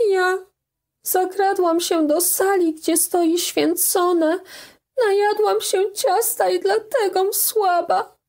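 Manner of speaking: put-on a guilty child confessing; tearful young girl. A narrator's reading. Daughter confessing her theft to mother, tearfully.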